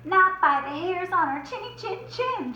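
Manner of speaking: defiant shout. Acted. Percy shouting defiance at the wolf. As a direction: stand firm and shout back. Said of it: "shouted Percy".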